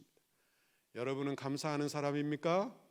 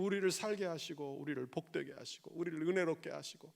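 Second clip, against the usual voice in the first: usual speaking voice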